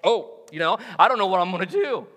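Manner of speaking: quick, flustered mock panic; hammed-up flustered rambling. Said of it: "You will slip into".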